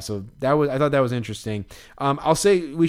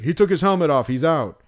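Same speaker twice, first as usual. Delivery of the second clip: louder umpire announcing the ruling; 3 semitones higher, 4 dB louder than usual. Retold or imitated. Umpire ruling her out for removing her helmet, loud. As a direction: lay down the rule like an official.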